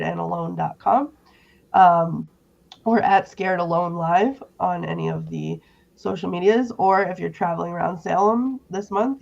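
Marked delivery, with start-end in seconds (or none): 2.8-9.2 lost voice, hoarse and strained. Real, not acted. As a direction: talk through a worn-out hoarse throat. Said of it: "I have no voice left".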